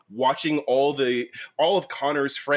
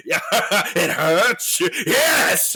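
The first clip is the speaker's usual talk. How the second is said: mock pained cheer; 6 semitones higher, 5 dB louder, much slower than usual. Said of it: "he's like".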